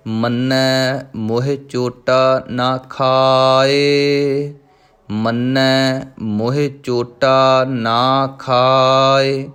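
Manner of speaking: slow, measured recitation of scripture; Gurbani recitation. Shown as a demonstration. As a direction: intone each line with devotion. Recites Gurbani lines in lesson. (Gurbani ਦਾ ਸਹਿਜ ਪਾਠ)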